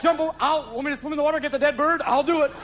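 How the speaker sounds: high, keen dog voice; high-pitched, hammed-up canine enthusiasm; eager dog. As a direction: jump in like an over-keen dog. Eager dog offering any trick.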